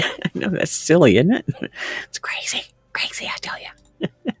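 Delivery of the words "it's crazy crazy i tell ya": playful whisper; whispered aside. Real, not acted. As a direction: whisper it like a joke to yourself. Teasing self aside.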